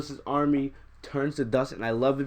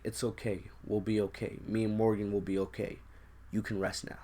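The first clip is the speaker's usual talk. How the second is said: soft, gentle reassurance, a touch quieter; soothing Pepper; 2 semitones lower, 6 dB quieter than usual. Retold or imitated. Lightly voiced wife letting him go, soft and tender. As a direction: Pepper soothing her dying husband, softly reassuring. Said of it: "we see Pepper just like".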